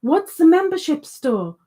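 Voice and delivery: what on earth is that; baffled question. Real, not acted. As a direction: ask it in real bafflement. Baffled reaction to a viewer's comment.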